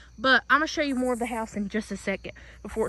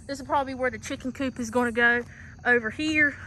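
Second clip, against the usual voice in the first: winded, out of breath while walking. Real, not acted. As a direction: talk out of breath, catching air. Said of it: "sorry, I'm out of breath".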